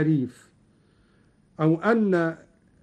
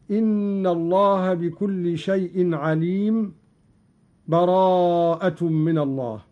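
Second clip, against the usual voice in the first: full pause after عليم before براءة, chanted; stop at the verse end. Shown as a demonstration. Teacher showing the waqf stop between the two surahs, chanted. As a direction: recite إن الله بكل شيء عليم, pause with a breath, then براءة من الله. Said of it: "هكذا".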